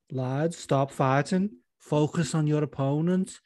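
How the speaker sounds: lightly voiced Scouse peacemaker; slow, drawn-out plea in a rough attempt at an impression; Molly McCann. Teammate telling squabbling lads to focus, lightly imitated. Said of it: "I can't do a good Molly McCann".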